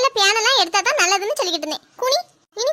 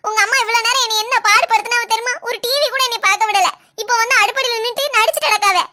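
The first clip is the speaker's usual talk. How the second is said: heated, wounded protest; aggrieved quarrelling; 3 dB louder than usual. Acted. Wife telling husband how his mother treated her, quarrelsome. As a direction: pour out grievances in a slightly raised voice. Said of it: "நீ தானே இப்ப சட்டை போட்டு கிடந்தா".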